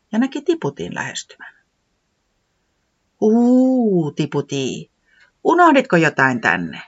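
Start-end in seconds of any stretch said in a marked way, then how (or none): 3.2-6.8 owl voice with a hoot. Acted. Pöllis the owl hooting to Tiputi from the hollow. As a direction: hoot then ask kindly.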